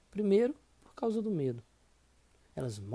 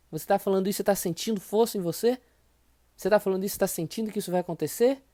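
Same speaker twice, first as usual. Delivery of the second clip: coaching push; 3 semitones higher, 5 dB louder, faster than usual. Real, not acted. Coach pushing the listener.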